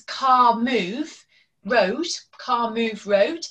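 lightly voiced toddler, rising on road; a hint of a small child's halting words; toddler speech. Shown as a demonstration. Toddler telling parent about the car, lightly voiced halting child. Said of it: "if a child says".

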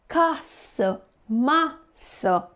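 "casă" and "masă" stressed on the first syllable, CA-să, MA-să; trochee stress demo. Shown as a demonstration. Teacher shows pupils a trochee, stressing "casă" and "masă" on the first syllable. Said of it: "accentul va cădea pe prima silabă".

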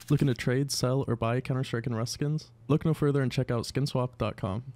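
brisk sponsor read. Acted. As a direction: read it like an upbeat ad spot.

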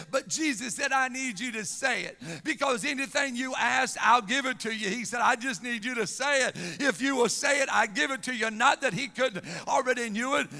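energetic, emphatic sermon cadence; impassioned preaching. Real, not acted. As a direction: drive the Bible story home from the pulpit. Preaches with force.

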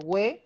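"hue" as gw plus e; U sounded in "hue". Shown as a demonstration. Teacher warns against this reading, "hue" with sounded U. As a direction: say "hue" with a clear w glide. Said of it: "yo no estoy diciendo hue".

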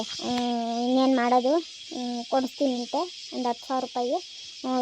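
soft, choked sniffles through the words; quiet sobbing. Acted. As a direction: hold back tears, barely voiced. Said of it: "ಅಳ್ಬೇಡ ನೀನು". (ಮೆಲ್ಲನೆ ಬಿಕ್ಕುತ್ತಾ ಅಳು)

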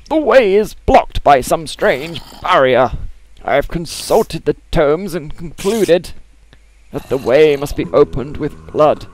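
put-on high, slow, strained old diarist; heart attack voice. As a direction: read it like you're about to keel over. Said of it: "I've gotta do the heart attack voice again".

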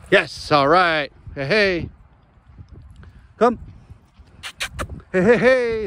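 high, drawn-out cheer for the dog; excited dog praise. Real, not acted. Owner praising dog after fetch, high excited cheer. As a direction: celebrate her catch.

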